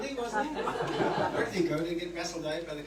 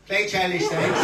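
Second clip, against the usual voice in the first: louder, blunt Belfast heckle; Belfast heckler accent; 3 semitones higher, 6 dB louder than usual. Retold or imitated. Retelling a Leicester gig heckle, mock Belfast shout. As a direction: throw it out like a Belfast heckler, half laughing. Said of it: "In a Belfast Belfast accent".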